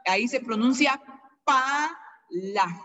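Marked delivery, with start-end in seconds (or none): 1.4-2.8 "pala" drawn out in two syllables, first higher; soft vowel. Shown as a demonstration. Teacher showing the dieresis in face, "pala" with soft vowel. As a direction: stretch "pa", pause, then soft "la".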